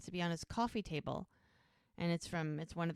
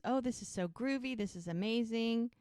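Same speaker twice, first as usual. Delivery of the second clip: high-pitched, lightly imitated enthusiasm; mock gushing; 5 semitones higher than usual. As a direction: gush like a thrilled marcher, a bit hammed-up. Retold gushing at the march.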